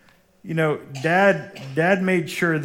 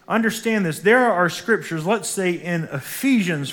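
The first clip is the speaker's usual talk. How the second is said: rising preaching; 5 semitones higher, 3 dB louder than usual. Real, not acted. Preaching at full force.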